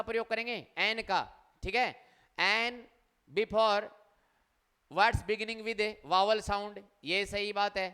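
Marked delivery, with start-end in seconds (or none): 2.4-6.8 slow reading aloud. Shown as a demonstration. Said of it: "teacher reads rule slowly".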